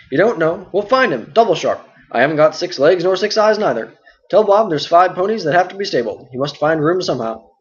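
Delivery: hearty and full of chatter; talkative innkeeper Butterbur. Acted. Butterbur gives orders.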